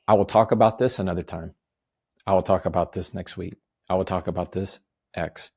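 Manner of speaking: assertive. Shown as a demonstration. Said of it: "that's a very assertive voice".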